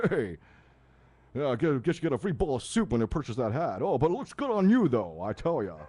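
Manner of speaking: lightly voiced Rodney Dangerfield insult; a hint of the comic's put-down patter. Showing a rival host how to insult, lightly Dangerfield-style. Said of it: "be like Rodney or something".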